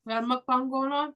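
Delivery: talking through a mouthful of food; mouth full. Real, not acted. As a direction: mouth full, mid-bite. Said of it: "Bree is enjoying her dinner right now".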